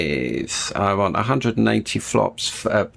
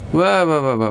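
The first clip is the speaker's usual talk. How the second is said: startled; 5 semitones higher than usual. Real, not acted. Plane lurches.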